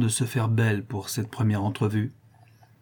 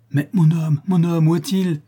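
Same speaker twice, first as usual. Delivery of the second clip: anxious demand; 5 semitones higher, 3 dB louder than usual. A narrator's reading. La Louve presses desperately.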